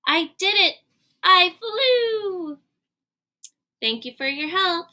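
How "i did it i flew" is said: high, bright shout of joy; triumphant cheer. Acted. Piggy celebrating her flight, high triumphant cheer. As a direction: crow it out like you just won. Piggy thinks she flew.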